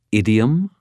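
put-on faint British accent on Idiom; a hint of British accent; slight British accent. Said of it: "a very slight British accent".

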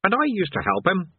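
a put-upon demon airing his grievance; sullen demon. Acted. Demon butting in on the chained man, sullen and hurt. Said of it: "its voice raw with sullen indignation".

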